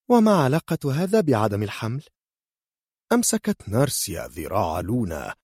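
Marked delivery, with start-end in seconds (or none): 0.1-2.0 puzzled. Acted. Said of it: "نظرت لونا إليها بتعجب".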